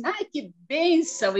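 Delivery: lightly voiced joyful blessing; delighted exclamation. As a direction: burst out in happy wonder. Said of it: "eu fiz, né?".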